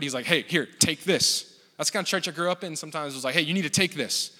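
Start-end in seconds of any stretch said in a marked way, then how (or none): 0.3-1.5 slow, insistent offer as a mock order; pushy. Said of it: "pushing it down our throat". 3.3-4.3 mock insistent churchman; pushy. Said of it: "pushing it down our throat".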